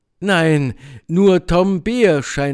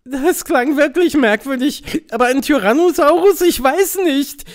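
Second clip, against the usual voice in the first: high soothing little mouse; calm him down gently; reassuring mouse; 12 semitones higher, 5 dB louder than usual. Acted. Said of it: "versucht Maxi, ihn zu beruhigen".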